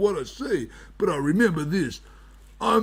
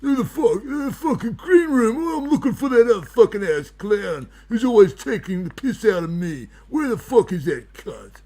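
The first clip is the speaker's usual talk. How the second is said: raging wizard; 5 semitones higher, 3 dB louder than usual. Acted. Wizard character raging at rival.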